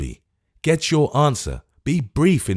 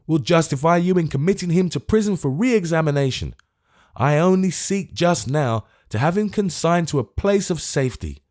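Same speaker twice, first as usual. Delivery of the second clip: urgent, raised pressing appeal; speaking rapidly; 7 semitones higher than usual. Acted. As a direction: press the case in a hurry. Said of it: "and speaking rapidly".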